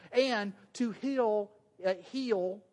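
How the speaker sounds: HEAL drawn out in a Southern accent. Real, not acted. Preacher stumbling on a word in his Southern accent. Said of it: "My southern accent gets in the way".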